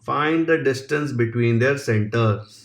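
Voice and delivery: slow, even dictation of the question; slow exam-question dictation; dictation reading. Acted. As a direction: read it out word by word for students to copy. Reads question slowly for copying.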